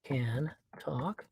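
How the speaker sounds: slow, halting, word by word; talking while typing. Real, not acted. Podcaster typing a chat message, slow and halting. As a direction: quietly sound out each word as you type.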